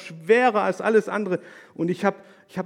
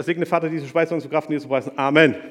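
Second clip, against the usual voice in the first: fast rattled table grace; rattled-off prayer; 5 dB louder, faster than usual. Shown as a demonstration. Preacher racing through a children's table grace for laughs, rattled fast. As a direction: race through the grace as fast as you can. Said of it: "wer kann am schnellsten".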